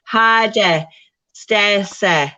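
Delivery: lightly hammed-up Birmingham accent. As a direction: imitate a Birmingham teacher calling a pupil. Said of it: "I'm just gonna quote the teacher. She was from Birmingham".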